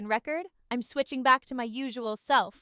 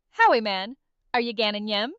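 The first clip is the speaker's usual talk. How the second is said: attempted Geordie accent, lower pitch; 4 semitones lower than usual. Shown as a demonstration. AI trying a Newcastle accent on request, Geordie. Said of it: "a Newcastle accent?".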